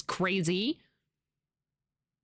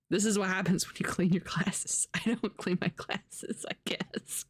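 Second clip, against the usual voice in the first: whisper. Real, not acted. Whispering about cleaning glasses.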